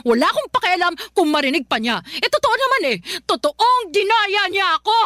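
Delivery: high-pitched, heated protest; indignant rant. Acted. Mother to daughter after losing the election, high indignant rant. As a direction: insist you were cheated, voice climbing.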